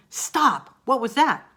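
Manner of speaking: high, loud alarmed call; exclaiming. Acted. Teacher reading a strong interjection to students, exclaiming.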